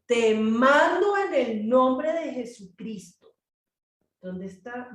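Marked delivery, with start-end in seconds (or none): 0.1-3.3 loud, slow, stretched-out order; imitating an apostle ordering a demon out; commanding. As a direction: declare it with ringing authority. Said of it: "Él está ordenando al demonio".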